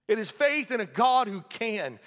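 ordinary talk

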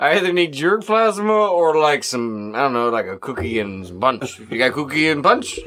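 lightly voiced muppet killer; a hint of a goofy puppet. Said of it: "That's why I'm doing that voice".

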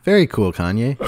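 deadpan Trump imitation; plain deadpan voice. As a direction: say it flat, no idea what it means. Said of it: "Just plain voice".

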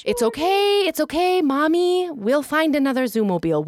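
high-pitched mommy reassurance; retold soothing. Mom consoling her bawling son, retold soothing. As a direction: hurriedly placate a child, high voice.

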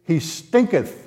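lightly voiced Martha protesting; King James Martha. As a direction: read the old wording with mild dramatic relish. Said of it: "In the King James, it says".

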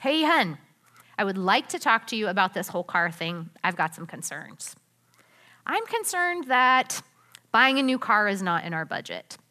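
calm, sincere and open; respectful tone. Shown as a demonstration. Wife calmly sharing money concerns with husband, sincere. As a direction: gently raise concerns, inviting his view. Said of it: "try saying things like this".

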